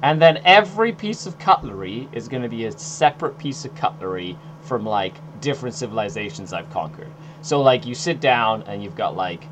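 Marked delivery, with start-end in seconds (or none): 0.0-7.1 boastful Archon. Pretend.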